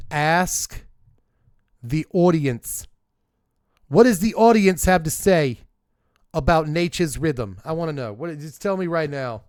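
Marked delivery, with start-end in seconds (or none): 0.1-7.6 calling out. Acted. Host calling out to audience.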